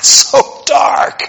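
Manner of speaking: slow, breathy mock whisper; mock hush. Preacher mocking a dark restaurant with a slow whisper. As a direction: hush it like the room is too dark.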